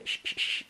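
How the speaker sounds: three unvoiced "Sh" hisses, soft; SH sound. Shown as a demonstration. Teacher isolates the S H, voiceless "Sh" repeated. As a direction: give "Sh" alone as a pure hiss. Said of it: "también la S H".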